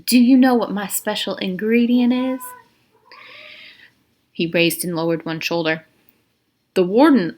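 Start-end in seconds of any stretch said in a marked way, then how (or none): 0.0-2.4 higher, teasing question; sinister quiz; warden's voice. Acted. Warden to Stanley, higher teasing question.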